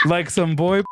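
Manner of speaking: high, hammed-up southern voice; southern accent. A narrator's reading. Reading Glover's southern explanation.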